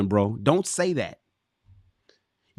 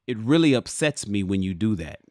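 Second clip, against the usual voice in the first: calm, lowered, measured delivery; calm statement; 6 semitones lower than usual. Acted. Man calmly telling his partner she upset him, calm and lower. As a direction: state the hurt evenly, no heat.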